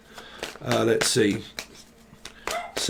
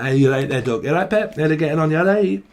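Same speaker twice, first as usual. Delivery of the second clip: put-on northern English accent. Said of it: "someone's from up north as well".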